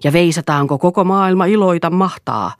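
husband jeering at his wife with a hymn title; sneering mockery. A narrator's reading. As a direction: throw the hymn line at her in scorn. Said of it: "Eero irvisti".

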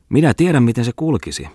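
high, loud needling jab; teasing. A narrator's reading. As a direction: poke fun to provoke him. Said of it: "ärsytteli Jalmari Touhio".

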